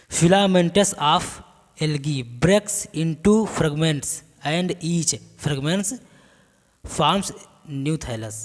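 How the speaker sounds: slow, measured dictation of notes; spaced-out teacher's dictation. Acted. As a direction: read it out slowly for note-taking.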